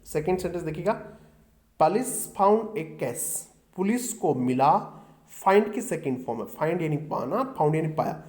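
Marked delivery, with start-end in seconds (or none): 1.8-3.4 dictation reading. Shown as a demonstration. Reading the example sentence slowly.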